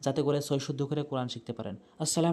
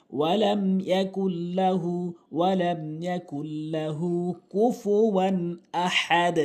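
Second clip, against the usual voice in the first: slow, measured Arabic recitation with long held vowels; Quran recitation; slower than usual. Shown as a demonstration. Teacher reciting the sura correctly for learners, slow recitation. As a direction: recite slowly, drawing out each long syllable.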